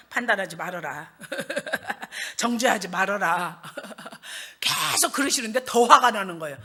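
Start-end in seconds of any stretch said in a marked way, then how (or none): 0.1-1.1 low, soft admonition; calm divine reminder, voiced low; Holy Spirit. Spirit reminds her of scripture, calm admonition. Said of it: "뭐라 그러셔요?". 2.4-3.6 slow, low admonition; drawn-out divine reminder; Holy Spirit. Acted. Spirit keeps reminding her of scripture, calm admonition. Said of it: "뭐라 그러셔요?".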